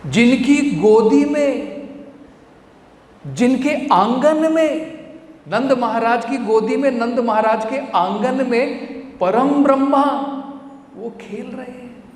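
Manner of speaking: high, ringing emphasis; fervent exaltation. Real, not acted. Preacher reveals God in Nanda's courtyard, high fervent proclamation.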